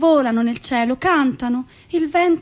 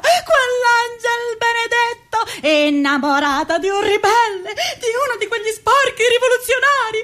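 mock lament; 5 semitones higher than usual. President's lament acted.

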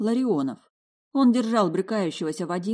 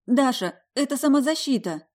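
tearful whisper; 7 semitones higher, 4 dB louder than usual. Acted. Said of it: "горячо сквозь слёзы прошептала".

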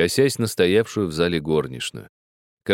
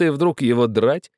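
amused disbelief; 8 semitones higher than usual. A narrator's reading. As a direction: still laughing at the absurdity. Host after bursting out laughing.

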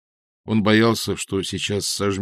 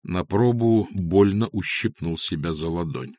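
usual speaking voice

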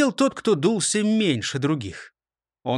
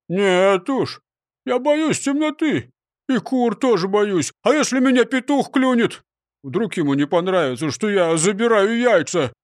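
frightened; 5 semitones higher, 4 dB louder than usual. Acted. Scared robber pleads.

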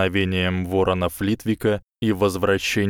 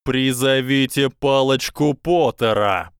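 higher yelled name; yelling; 5 semitones higher, 4 dB louder than usual. A narrator's reading. Quirrell yells to Flitwick, shouting. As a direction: yell across the room. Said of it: "заорал профессор Квирл".

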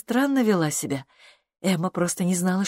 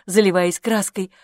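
usual speaking voice

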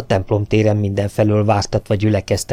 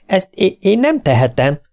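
panicky protest; 10 semitones higher than usual. A narrator's reading. Agent protests being sent out.

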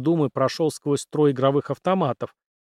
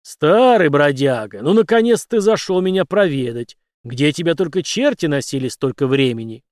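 booming bass; 6 dB louder than usual. Acted. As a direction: boom it out like a bear hug. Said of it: "пробасил".

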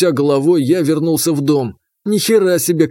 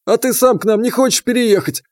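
put-on higher, sudden call from an old man; old grandfather; 7 semitones higher than usual. A narrator's reading. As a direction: stop them short like a grandpa. Grandfather asks.

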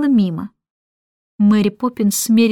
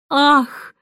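cooing sigh; 4 semitones higher than usual. Acted. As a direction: coo over the bundle. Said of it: "проворковала она".

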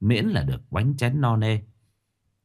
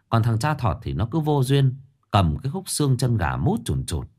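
ordinary delivery

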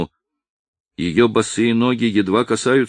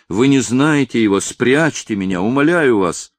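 higher-pitched, urgent begging; pleading; 5 semitones higher than usual. Acted. Hunted girl begging the old man to hide her, pleading. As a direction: implore with a touch of panic.

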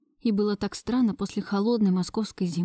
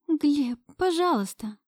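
a touch of breathless pleading, higher; 6 semitones higher, slower than usual. A narrator's reading. She pleads with Gleb, weakening. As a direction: beg him to stop, half-wanting. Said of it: "взмолилась я".

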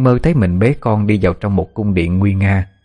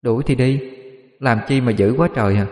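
a touch higher, impish sulky retort; cheeky teasing; 4 semitones higher than usual. Acted. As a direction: tease him as you leave. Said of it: "cô gái còn nghịch ngợm le lưỡi ra".

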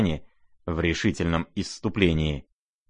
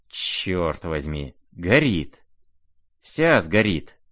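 a slow oath, then a mildly raised cry; mild exclamation; slower than usual. Acted. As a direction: half-shout in dismay at the fire. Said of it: "вскричал он".

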